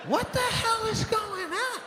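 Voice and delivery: very high, drawn-out exasperated yell; hammed-up disbelief, stretched into a shout; mock outrage. Comic baffled by therapy-like spin class, outraged yelling.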